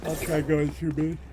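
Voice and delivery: talking through a yawn; mid-yawn, words stretched. Real, not acted. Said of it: "I'm yawning".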